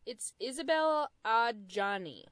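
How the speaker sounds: Isabel Adjani in a flat American accent. Shown as a demonstration. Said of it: "Which I'm saying with my very American accent".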